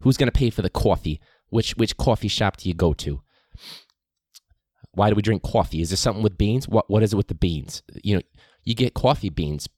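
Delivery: imitating a professor's heavy Brooklyn accent; a light mock Brooklyn accent. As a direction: do the Brooklyn lecturer going on about coffee. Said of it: "heavy Brooklyn accent".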